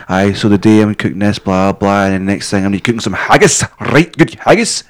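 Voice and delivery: hammed-up Scottish cooking host; exaggerated Scottish accent. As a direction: push the Scottish accent hard on "haggis". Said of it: "I don't speak Scottish".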